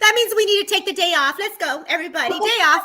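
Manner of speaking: giggling, high and bright; laughing. Real, not acted. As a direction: laugh through the joke. Joking about taking day off.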